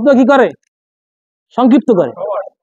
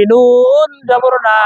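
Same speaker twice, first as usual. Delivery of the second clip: slow drill; much slower than usual. Shown as a demonstration. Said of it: "slow drilled spelling for students".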